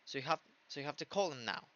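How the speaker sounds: natural native speed, words linked; quick connected speech; fast natural reading. Shown as a demonstration. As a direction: run the words together quickly. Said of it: "muy rapidito".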